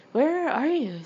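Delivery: high, loud scream; two girls shouting into the dark for Greg. A narrator's reading. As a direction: yell it out into the dark. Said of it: "screamed in unison".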